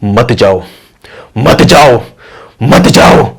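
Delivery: menacing phantom voice growing forceful; loud deep spirit. Acted. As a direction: swell into a booming ghostly command. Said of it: "voice होती है वो तेज और deep होनी शुरू हो जाती".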